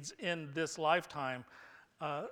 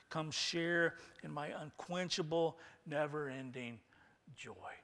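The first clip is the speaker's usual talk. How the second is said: softening, lightly voiced divine welcome; God the Father's welcome. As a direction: begin measured, fade to a hush. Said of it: "when we hear the Father say".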